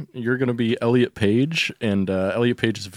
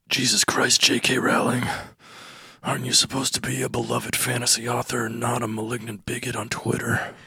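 weary American exasperation at usual pitch; exasperated. Acted. Literary agent scolds J K Rowling, exasperated. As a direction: reproach with tired disbelief. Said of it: "Just exasperated".

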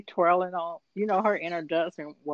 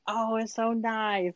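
mock Bella; 5 semitones higher, 4 dB quieter, slower than usual. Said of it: "Bella was like".

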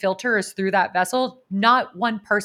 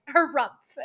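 mock harumph; 6 semitones higher than usual. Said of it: "was going".

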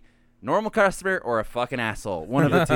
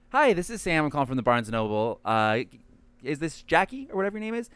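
customer service voice; 2 semitones higher than usual. Retold or imitated. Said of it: "do my customer service voice".

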